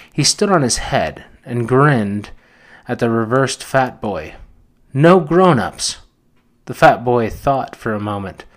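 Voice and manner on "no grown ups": slow, high and louder, savouring it; delighted. A narrator's reading. Fair boy gloating to fat boy, delighted and slow. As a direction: relish the words like a dream come true. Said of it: "the delight of a realized ambition came over him".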